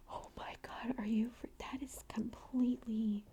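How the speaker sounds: gasp, then aghast disbelief; retold freak-out. Listener reacting to the rooster story, appalled freak-out. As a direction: act out being appalled, gasping first. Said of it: "You're, like, freaking out".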